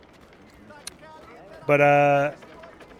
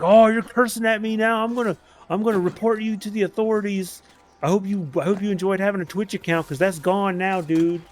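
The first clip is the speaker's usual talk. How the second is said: mocking troll voice; 5 semitones higher than usual. Streamer imitates troll threatening to report him, high and mocking. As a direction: ham up his self-righteous threat.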